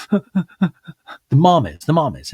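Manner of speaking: sobbing mom. Retold or imitated. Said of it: "And she's like".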